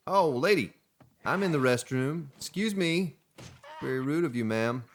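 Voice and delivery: high, mock-indignant protest; a hammed-up shocked squeal; mock offended. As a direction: play the flustered prude caught in the stall. Caught in restroom by NPC.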